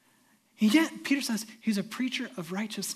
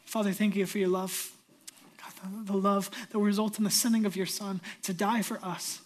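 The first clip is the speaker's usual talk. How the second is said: closing prayer. Acted. Pastor leads closing prayer.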